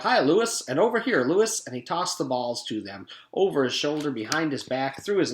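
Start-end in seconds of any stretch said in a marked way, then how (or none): 0.0-0.6 high called-out hello; yelled greeting. A narrator's reading. Kids calling to the yard teacher, loud and high. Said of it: "Kids yelled out". 0.8-1.7 high called-out hello; yelled greeting. A narrator's reading. Kids calling to the yard teacher, loud and high. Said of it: "Kids yelled out".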